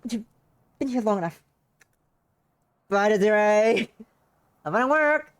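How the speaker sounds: high, loud teasing farewell; sing-song mocking goodbye.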